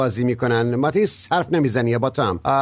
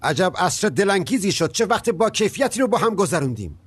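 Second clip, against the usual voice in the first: sarcastic; 7 semitones higher than usual. Acted. Father sighs over ruined evening.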